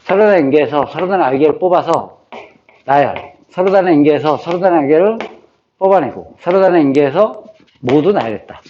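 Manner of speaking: repeated memory-drill phrasing; rote recitation. Shown as a demonstration. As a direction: recite the formula as if learning it by heart. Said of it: "계속 이렇게 외우는 거예요". (공식을 입에 붙이듯 반복해서 읊기)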